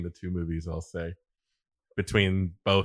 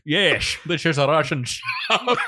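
mock Russian accent; 5 semitones higher, 4 dB louder, slower than usual. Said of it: "is that the Scottish side of Russia?".

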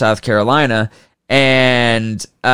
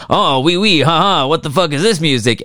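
hammed-up delighted Frenchman, slightly raised; mock French delight; 3 semitones higher than usual. The French hear jazz for the first time, mock delighted. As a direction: play a tickled French listener.

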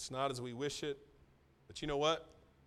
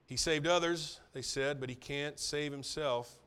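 mocking crowd; 5 dB louder than usual. Quoting mocking crowd at cross.

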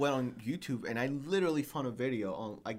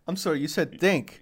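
mock snap, laughing through it; laughing mimicry; 2 semitones higher, 5 dB louder than usual. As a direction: tease him with his own snap while laughing. Friend mimics him, laughing.

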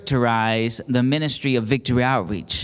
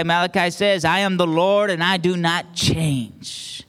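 raised, emphatic sermon delivery; higher-pitched, declarative pulpit voice; preaching; 4 semitones higher than usual. Real, not acted. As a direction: preach it to the congregation, stretching the key words. Preaching God's unchanging purpose.

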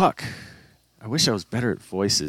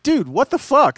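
dude. Retold or imitated. Friends react to his voice.

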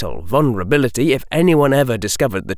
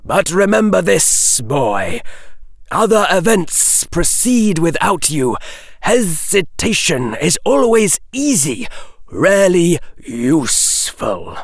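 warning snake hiss; 6 semitones higher than usual. A narrator's reading.

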